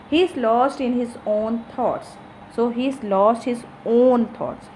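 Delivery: "own" given extra weight; stress on own. Shown as a demonstration. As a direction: lean on "own" before "thoughts". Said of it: "own word is giving much importance".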